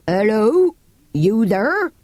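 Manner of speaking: calling. Acted. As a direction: hail through a bolted door. Keeper calls through door.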